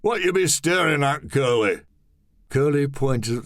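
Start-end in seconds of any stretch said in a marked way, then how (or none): 0.0-1.8 higher put-on voice, demanding; mildly raised gruff question; tall man's voice. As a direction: raise the pitch and challenge him. Tall man voice again.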